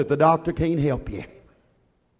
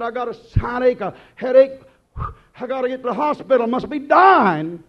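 mock hypochondriac panic; 3 semitones higher, 5 dB louder than usual. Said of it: "Somebody said".

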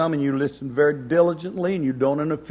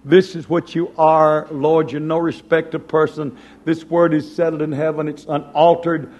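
louder, confident Lord; believing prayer; 4 dB louder than usual. Retold or imitated. Preacher acting out a prayer of faith, confident. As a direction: declare it to God with certainty. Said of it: "when we begin to believe".

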